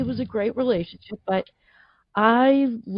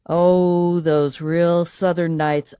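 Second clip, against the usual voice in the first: Southern drawl; 3 semitones lower, 5 dB louder, much slower than usual. Retold or imitated. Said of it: "go real deep within me".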